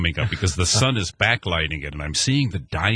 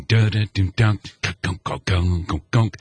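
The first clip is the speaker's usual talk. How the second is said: scat organ riff. Retold or imitated. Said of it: "And I'm thinking".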